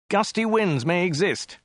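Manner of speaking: mild shout. A narrator's reading. Passenger reading sign out to driver, slow emphatic statement. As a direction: call it out slowly, falling at the end. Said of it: "shouted Dirk".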